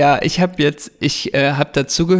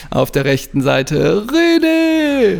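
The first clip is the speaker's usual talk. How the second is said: drawn-out stadium announcer call; 4 semitones higher, slower than usual. Pretend. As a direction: call the player's first name like a stadium announcer. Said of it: "im Stadionsprechermanier".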